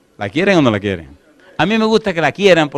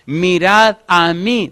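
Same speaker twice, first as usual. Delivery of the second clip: voice of God; much slower than usual. Acted. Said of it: "dice Dios".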